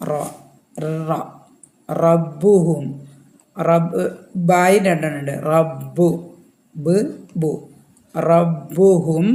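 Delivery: റബ്ബുഹും with a full heavy റ and doubled ബ്ബ്. Shown as a demonstration. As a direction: round the റ heavy, stress the double ബ. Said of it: "ഇത് heavy റായാണ്". (റബ്ബുഹും കനത്ത റായോടെ, ബ്ബ് ഇരട്ടിച്ച്)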